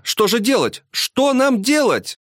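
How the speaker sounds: high, drawn-out desperate plea; panicked cry. A narrator's reading. Wife begging husband for a way out, high panicked cry. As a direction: plead in rising panic. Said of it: "вскрикнула жена".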